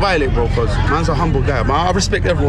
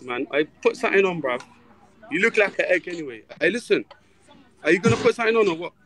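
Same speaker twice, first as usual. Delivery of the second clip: hushed on the bus; 5 dB quieter than usual. Real, not acted. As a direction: keep it down, scolding under your breath. Talking quietly on packed bus.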